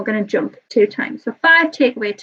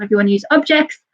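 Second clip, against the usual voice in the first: real hurried, run-on teacher patter; talking fast; 2 semitones higher, faster than usual. Real, not acted. Nervous teacher listing options for home learners, talking fast. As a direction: rattle through the options quickly. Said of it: "sorry if I'm talking so fast".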